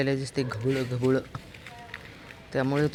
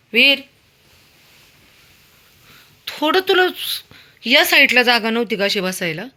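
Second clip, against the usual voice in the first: high, loud scolding of the dog; playful scolding of the dog, much higher and louder; pet-talk scolding; 8 semitones higher, 9 dB louder than usual. Real, not acted. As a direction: tell the dog off in high sing-song.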